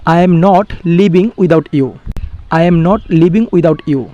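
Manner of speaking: very slow, careful English; slow model sentence. Shown as a demonstration. Teacher giving the English translation, slow and deliberate. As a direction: lay each word out slowly. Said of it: "তখন আমি বলবো".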